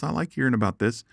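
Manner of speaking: voicing Flying One. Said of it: "Flying One says".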